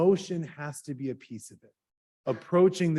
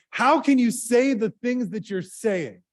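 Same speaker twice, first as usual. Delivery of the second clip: higher, louder and slow, a hammed-up indignant heckle; retold angry yell; 7 semitones higher, 5 dB louder than usual. Student in the lecture hall yelling at the teacher, mock angry. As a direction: shout it slowly like the furious student. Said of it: "yells at him and says".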